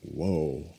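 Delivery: low, hushed groan of dismay at an ugly scene; a soft, sinking whoa. Retold or imitated. People facing a real ugly scene, a low dismayed whoa. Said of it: "people going".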